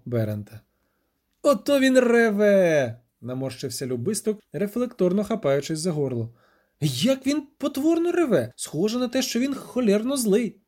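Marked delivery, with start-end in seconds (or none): 1.4-3.0 wincing exclamation. Acted. Dandelion winces at the roar. 6.8-10.6 appalled exclamation. Acted. Dandelion appalled by the roar.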